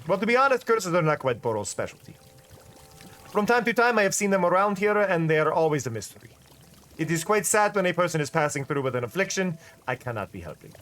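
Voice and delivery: lightly voiced shopkeeper with a put-on accent; fake accent shopkeeper. Shopkeeper Boro answering the player's worry, mild fake accent. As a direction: play Boro with a mild fake foreign lilt. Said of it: "with the fake accent".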